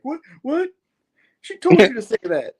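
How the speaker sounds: high-pitched mock outrage; hammed-up falsetto disbelief; Janine. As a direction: squawk it as a comic character. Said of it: "doing those horrible voices".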